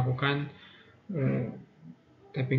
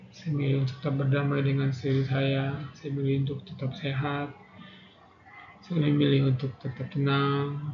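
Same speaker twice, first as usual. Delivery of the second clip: guided affirmation. Acted. Leads tapping affirmation.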